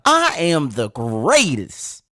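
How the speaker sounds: slow champion's boast, closer to normal pitch; drawn-out proclamation swooping up then falling; Muhammad Ali. Acted. Host urging listeners to try harder, slow boastful champion voice. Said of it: "You can do a little better than that".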